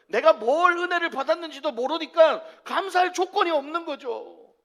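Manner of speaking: loud, high preacher's exhortation; fiery sermon delivery; preaching at full force. Acted. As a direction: rouse the congregation, pressing hard.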